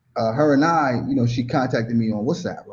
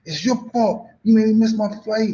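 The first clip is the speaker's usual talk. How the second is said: cutting up; 9 semitones higher than usual. Retold or imitated. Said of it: "I cut up so bad".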